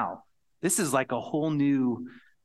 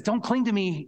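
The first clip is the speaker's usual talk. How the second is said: mild Jesus voice; 9 semitones higher, 6 dB louder than usual. Acted.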